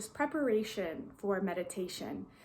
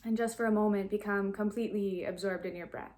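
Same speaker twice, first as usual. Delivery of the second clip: calm, even guiding voice with long pauses; guided meditation. Real, not acted. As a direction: gently lead listeners into stillness, leaving long silences.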